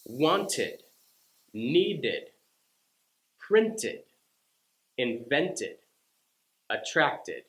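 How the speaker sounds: each word ending in a clear id syllable; id examples. Shown as a demonstration. Teacher listing id words for learners. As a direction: say each word with an extra id beat. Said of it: "We'll have words like this".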